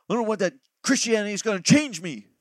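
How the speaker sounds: mild mock complaint against being changed; imitating a reluctant convert. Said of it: "I've seen people go".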